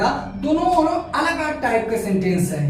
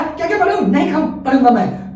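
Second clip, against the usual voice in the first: fed-up whine; 4 dB louder than usual. Shown as a demonstration. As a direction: sulk it out, sick of studying. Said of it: "पढ़ते पढ़ते उब गया".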